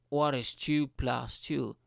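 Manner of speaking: slow, spaced-out question to a device; test question. Retold or imitated. User testing the smart speaker, slow question. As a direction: ask it slowly, word by word. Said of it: "And I was like".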